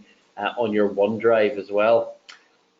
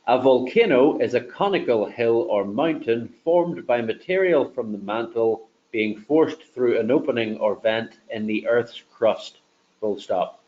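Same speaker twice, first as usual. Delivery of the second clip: dictating. Shown as a demonstration. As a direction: dictate each word carefully to the mic. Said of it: "that's just simply dictating".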